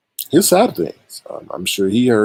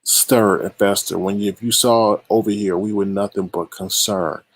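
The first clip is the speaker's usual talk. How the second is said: incredulous. Retold or imitated. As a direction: drag out each question in disbelief. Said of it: "the things I heard today was just like".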